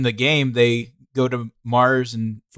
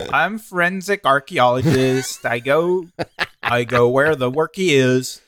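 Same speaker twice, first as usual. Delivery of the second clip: a slow, mangled American accent mimicking a Brit actress; lightly mocked American accent with broken grammar; mocking bad American accent; slower than usual. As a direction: parody a Brit doing a clumsy American accent, slowly. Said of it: "taking the mickey out of someone doing a bad American accent".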